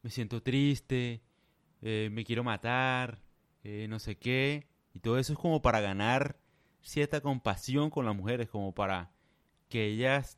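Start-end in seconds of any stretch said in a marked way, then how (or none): 0.0-4.7 mocking sad man. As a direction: drag it out like a fake sob story. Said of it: "le dicen".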